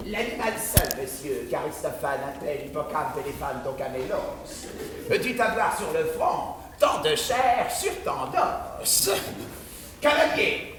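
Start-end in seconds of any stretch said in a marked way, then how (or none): 0.1-9.1 lower, lecturing know-it-all; pedantic. Acted. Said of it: "Pédant". (ton pédant)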